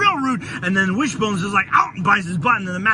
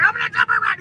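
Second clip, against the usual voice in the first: giddy cartoon hero. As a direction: bounce it out like a freed cartoon. Hero voiced gleefully in retelling.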